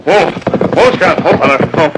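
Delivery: calling to horse. Acted. Reining in his horse.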